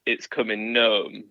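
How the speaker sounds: slowed pun slogan. Retold or imitated. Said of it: "some which was like".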